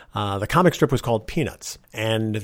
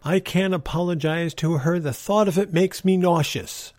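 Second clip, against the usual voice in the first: retold yell; 5 semitones higher than usual. Kid answers mother through bedroom door, mild mock yell. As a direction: imitate a child calling through a door, pitched up. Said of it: "I yelled through my bedroom door".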